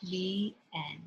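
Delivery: soft whisper to close; whispered the end. Real, not acted. The storyteller whispers the end of the bedtime story. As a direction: hush the ending.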